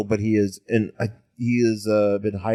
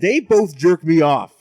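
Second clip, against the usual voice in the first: louder, slower jokey insistence; mock demand; 4 semitones higher, 6 dB louder than usual. Demanding the publishers bring back Amalgam, louder mock insistence. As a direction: insist on it, hammed-up.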